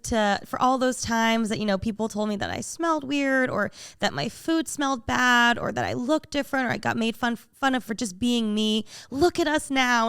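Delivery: usual speaking voice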